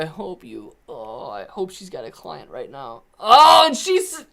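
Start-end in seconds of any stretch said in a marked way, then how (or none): 3.2-4.2 sing-song tease. Real, not acted. Teasing about Lauren's meow.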